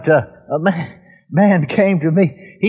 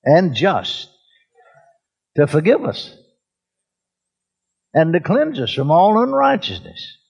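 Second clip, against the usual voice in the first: congregation repeat. Shown as a demonstration. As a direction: lead the church through the verse phrase by phrase. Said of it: "Everybody say".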